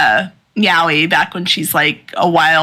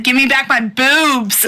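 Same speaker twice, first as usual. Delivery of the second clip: Denji's silly demand; 6 semitones higher than usual. Retold or imitated. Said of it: "he said".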